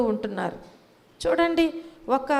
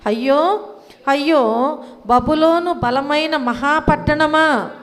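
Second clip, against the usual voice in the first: loud mourning cry; lament for Babylon; 2 semitones higher, 5 dB louder than usual. Retold or imitated. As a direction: cry out in grief over the fallen city. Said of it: "ఏమంటున్నారు?".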